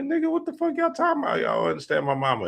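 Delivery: high, quick mock-confused voice; rapid squeaky-high impression; baffled childhood friend.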